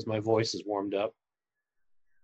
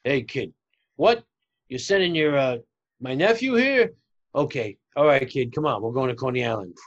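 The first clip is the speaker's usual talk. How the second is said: uncle character voice. Acted. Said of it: "with Uncle Zero Boy".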